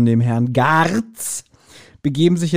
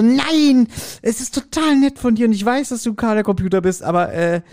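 Gabi's voice; 6 semitones higher than usual. Retold or imitated. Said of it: "Und Gabi so".

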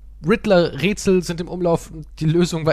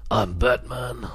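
deep Batman voice; 3 semitones lower, much slower than usual. Retold or imitated. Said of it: "hat Batman auch wieder so eine Stimme".

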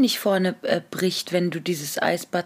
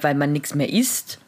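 whispering; 6 semitones lower than usual. Real, not acted. Whispered reply.

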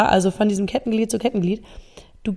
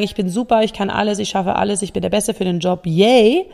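mock self-hype. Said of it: "Jetzt hinzugehen und zu sagen".

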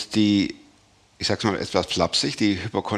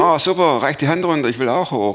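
relieved joke character; 4 semitones higher, 4 dB louder than usual. Retold or imitated. Telling joke, man on tree.

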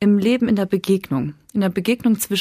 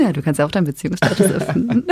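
schnell und lachend gekontert; faster than usual. Real, not acted. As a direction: neckend durch Lachen sprechen. Teasing comeback, laughing. (lachend zurückgeben)

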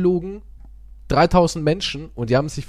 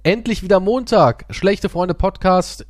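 mock cheer; 5 semitones higher, slower than usual. Shown as a demonstration. Host correcting himself, with mock Monday cheer. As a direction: cheerfully pretend to love Monday. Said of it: "Moment mal, wir haben doch gar nicht Sonntag".

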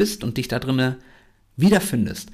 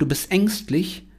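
mock accusing voice, lightly higher; someone's taunt; 5 semitones higher than usual. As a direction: lightly imitate someone calling you fearful. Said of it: "Wenn dir irgendeiner sagt".

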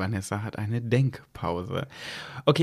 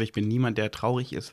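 ordinary talk

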